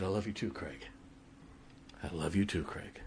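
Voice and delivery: soft, low, heartfelt retold reply; tender farewell. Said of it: "But that day".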